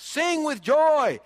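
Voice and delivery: slow, loud, high call to sing; intense joy. Shown as a demonstration. Preacher urging the church to sing, loud and joyful. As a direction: lift them up with full heart. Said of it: "Be intense about it".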